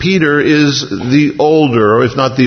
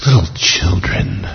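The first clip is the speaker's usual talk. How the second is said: tender; 5 semitones lower, slower than usual. Pretend. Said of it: "I want to hear his voice say that".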